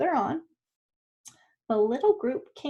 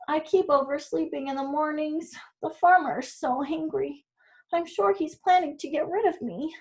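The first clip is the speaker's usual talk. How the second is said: higher, lightly voiced worried rooster; 4 semitones higher than usual. Rooster tells the donkey the farmer will get rid of him, worried. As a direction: fret like an old rooster.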